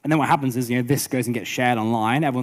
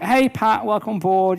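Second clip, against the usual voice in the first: chirpy greeting; 9 semitones higher, 3 dB louder, slower than usual. Retold or imitated. Voicing his welcome video greeting.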